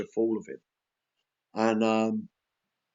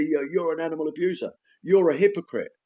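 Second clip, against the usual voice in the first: mock blunt accusation; 3 semitones higher than usual. Mocks blunt accusing outreach style.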